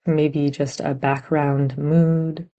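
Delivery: gentle, unhurried meditation guidance with long pauses; guided meditation. Real, not acted. Teacher guiding meditators to sense body and heart, measured meditation voice. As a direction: guide listeners inward, leaving room between phrases.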